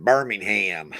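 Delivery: Birmingham with a full ham; Alabama pronunciation. Shown as a demonstration. Mimicking the funny Alabama Birmingham, full ham. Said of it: "the way they say it's funny".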